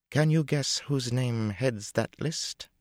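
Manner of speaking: high, slow, sly question; teasing. A narrator's reading. Tuon teasing Matt over the list, sly. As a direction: tease him with a knowing lilt.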